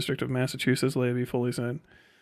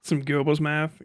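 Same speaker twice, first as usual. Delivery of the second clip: bent voice; slower than usual. Pretend. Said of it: "Please keep doing bent voice".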